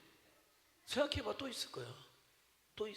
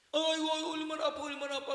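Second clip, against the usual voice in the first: higher, louder caring mom; fussing mother; 7 semitones higher, 6 dB louder than usual. Retold or imitated. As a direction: coo over a hurt child. (다친 아이를 달래는 엄마)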